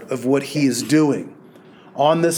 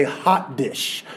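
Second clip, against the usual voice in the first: softer, lower "Hot dish" in a Minnesota way; 3 semitones lower, 5 dB quieter than usual. Retold or imitated. Pastor imitating friend's Minnesota word, softer and lower. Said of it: "he'd say".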